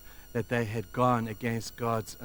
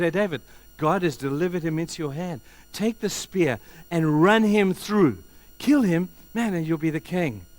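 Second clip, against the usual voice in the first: loud, pressing urge to kill; urging; 5 semitones higher, 5 dB louder than usual. Acted. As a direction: push him hard to strike. Abishai urging David to kill.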